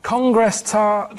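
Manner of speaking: "Congress tart" very slowly, insisting; slow emphatic. Acted. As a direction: repeat it, dragging each word. Repeated code word.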